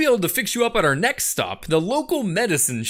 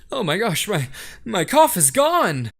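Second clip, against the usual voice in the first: hammed-up amazement. Plant fakes miraculous cure.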